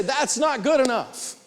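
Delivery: "That's not good enough" high, slow and firm; firm demonstration. Shown as a demonstration. Buyer rejecting another price, firm slow "That's not good enough". Coach repeats the stock reply.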